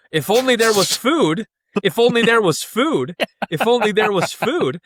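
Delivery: high, sing-song pleading on repeat; mock hungry lament. Someone with fork and knife at the table, mock lamenting. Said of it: "someone in the kitchen with a fork and knife".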